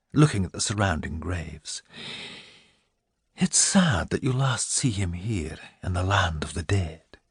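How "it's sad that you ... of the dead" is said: hushed sorrowful whisper; sad whisper. Acted. Minerva lamenting to Milly by the graves, in a sad whisper.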